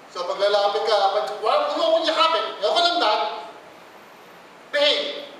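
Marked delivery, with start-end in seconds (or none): 1.4-5.3 a hint of a stern parent; mock stern parent. Parent refusing a child's hug, mildly stern. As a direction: push the child away with a clipped order.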